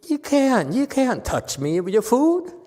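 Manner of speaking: high, loud outburst of refusal; sudden loud protest. Retold or imitated. Old master refusing the disciple's food, high and loud. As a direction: burst out high and loud, pushing the food away. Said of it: "all of a sudden he says".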